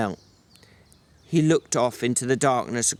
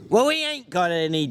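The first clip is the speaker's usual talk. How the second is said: sharp burst of anger, a touch higher; exploding George; 5 semitones higher than usual. Acted. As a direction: snap back in irritation. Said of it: "George exploded".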